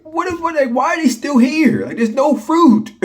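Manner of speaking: very high, squeaky disbelief; incredulous exasperation. Real, not acted. Vlogger venting about flies still there with no fruit, incredulous squeal.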